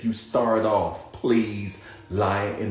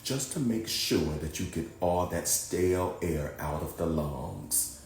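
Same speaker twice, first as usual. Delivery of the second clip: calm, softer guiding voice with long pauses; guided meditation; 6 dB quieter than usual. Acted. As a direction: ease them down into rest, unhurried.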